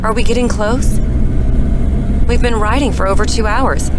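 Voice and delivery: loud, strained complaint over the noise. Acted. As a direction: complain loudly above the ride. Complaining during long bumpy ride.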